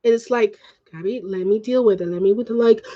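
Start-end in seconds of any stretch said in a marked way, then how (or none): 0.9-2.5 lower, measured imitation of a father; lightly voiced calm peacemaker; quiet, reasonable dad. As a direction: talk her down in a low, even voice. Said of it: "trying to be the quiet and reasonable one".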